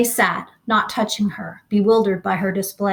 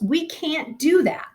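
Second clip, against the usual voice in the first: wailing; 8 semitones higher than usual. A narrator's reading. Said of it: "wailed Missus Bowles".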